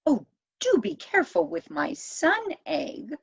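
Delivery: high, pleading elf voice; a small elf crying out in alarm; high-pitched elf begging to be careful. A narrator's reading. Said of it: "cried the elf".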